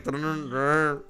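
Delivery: slow sung-out ringtone noise; imitated phone ringing. Telling how the phone rang at once, slowly mimicked ringtone. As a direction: mimic a phone going off, drawn out. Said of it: "my thigh was already ringing".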